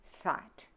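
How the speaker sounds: "thought" as that with a breathy TH, thaht; unvoiced TH. Shown as a demonstration. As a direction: blow the TH of "thought", as in thin. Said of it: "will be unvoiced in Middle English".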